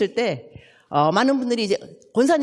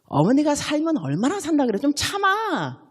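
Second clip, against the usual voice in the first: husband soothing wife; 5 semitones higher than usual. Retold or imitated. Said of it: "이럴 때 남편이 어떻게 말을 하냐면".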